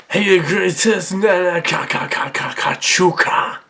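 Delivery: slow, stuttering gibberish in a put-on voice; alien gibberish. Child hero hearing aliens, nonsense alien voice. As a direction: rattle the repeated syllables like alien speech. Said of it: "all they sounded like to me was".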